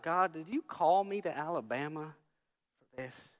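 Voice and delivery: soft, bewildered question to God; inward complaint. Retold or imitated. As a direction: trail down into a hushed plea. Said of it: "I'm a mess about it inside".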